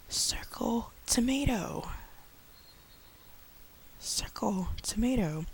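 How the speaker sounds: high, slow classroom command; slow teacher instruction. Shown as a demonstration. Teacher slowly telling a learner what to circle. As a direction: point them to it slowly. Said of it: "for example".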